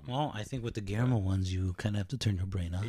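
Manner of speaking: talking while crunching candy; chewing between words. Real, not acted. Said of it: "Sorry, if you hear me crunching".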